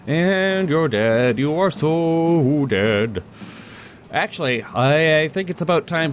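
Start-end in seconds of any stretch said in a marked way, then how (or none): 0.1-3.2 slow teasing menace; playful threat. Pretend. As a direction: drag out the threat.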